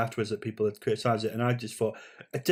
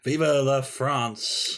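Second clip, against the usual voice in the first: mock patriotic cheer; 2 semitones higher, much slower than usual. Mock patriotic toast to cohost.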